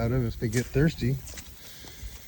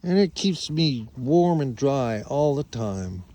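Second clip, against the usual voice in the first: voicing the sheep; 3 semitones higher, 4 dB louder than usual. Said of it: "Spike says".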